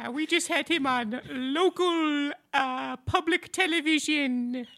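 crisp transatlantic enunciation; old Hollywood transatlantic accent. Acted. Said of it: "Why are you talking like that?".

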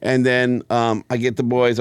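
ordinary delivery

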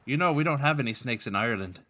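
lightly put-on Irish brogue; mild mock-Irish lilt; Patrick's Irish accent. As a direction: explain it in an amateur Irish accent. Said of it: "Speaking of bad accents".

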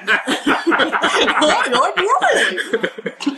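put-on high, drawn-out giggly kid voice; young kid voice. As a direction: squeak it out through laughter. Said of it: "Uh, no, I think it'd be like".

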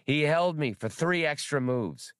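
high, fussy squeaking creature; squeaky voice. Acted. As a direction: squeak it out like a fretful rodent. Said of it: "Spray squeaked".

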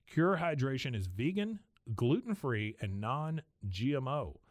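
podcast sponsor read; host-read commercial. Acted. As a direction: read the ad copy in an easy, even sell. Reads a sponsor ad.

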